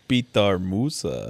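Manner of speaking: slow mock-Russian name; trash Russian accent. Fan trying the player's name, trash Russian accent. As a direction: draw it out in a bad Russian accent. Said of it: "Trash Russian".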